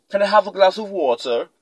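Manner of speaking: lightly imitated British accent. Shown as a demonstration. Speaker showing how a Brit talks, British accent. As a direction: put on a British accent to demonstrate. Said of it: "you hear a Brit say".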